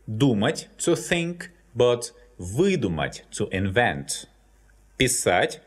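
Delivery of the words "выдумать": выдумать with the stress on вы; выдумать, hit the first syllable вы; stressed prefix. Shown as a demonstration. Teacher to students demonstrating выдумать with stress on вы. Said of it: "this prefix is stressed".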